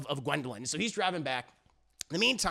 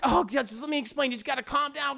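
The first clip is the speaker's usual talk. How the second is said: higher-pitched mock pleading; urgent, higher-voiced appeal; pleading girlfriend; 5 semitones higher, faster than usual. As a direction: imitate a woman trying to placate him. Woman pleads with enraged man.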